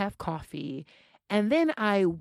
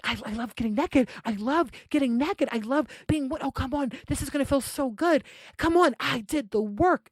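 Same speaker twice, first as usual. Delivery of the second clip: higher-pitched, eager imitation of a man; gleeful urging; 5 semitones higher than usual. Teacher stripping and urging his date, gleeful urging. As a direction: gush and coax, pitched up.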